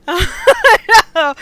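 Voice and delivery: high, loud laughing words. Real, not acted. Laughing while speaking.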